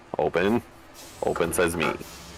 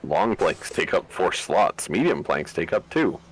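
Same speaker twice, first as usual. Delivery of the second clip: put-on grand old ballroom announcer; 4 semitones higher, slower than usual. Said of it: "slapping that voice on".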